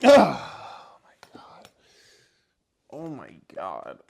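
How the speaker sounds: groaning from sore legs; aching, worn-out groans; sore muscles. Real, not acted. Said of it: "my legs are sore".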